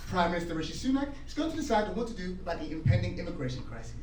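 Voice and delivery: low, soft, measured newsreader; British news anchor, lightly done; proper English newsreader. Retold or imitated. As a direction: read it dry and proper like the BBC. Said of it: "very factual, very proper".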